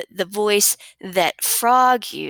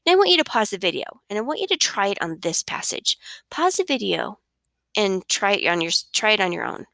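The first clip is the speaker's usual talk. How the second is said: ordinary talk, nothing marked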